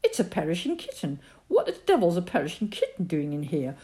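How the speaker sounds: high, loud exasperated outburst; angry father. A narrator's reading. Father finds a kitten in the oven, loud and exasperated. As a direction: bellow in disbelief at the oven.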